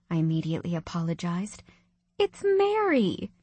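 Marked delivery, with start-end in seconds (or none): 2.2-3.3 firm. A narrator's reading. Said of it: "she told me firmly".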